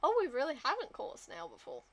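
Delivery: loud, fast realization; surprised. Real, not acted. Realizing a recipe is missing, loud surprised blurt.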